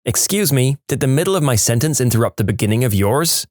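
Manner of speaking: put-on a kid snapping "Excuse me" back at the teacher; sassy little boy. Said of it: "the little boy replies".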